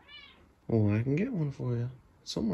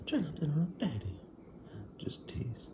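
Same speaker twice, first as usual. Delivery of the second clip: whisper to pet; 6 dB quieter than usual. Real, not acted.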